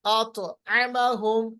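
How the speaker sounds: अतअमहुम slow, with a bounce on the त; qalqalah on ta. Shown as a demonstration. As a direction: echo the heavy त in अतअमहुम. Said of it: "सूरतुल कुरैश में पढ़ते हैं ना". (अतअमहुम में तौ का क़लक़ला)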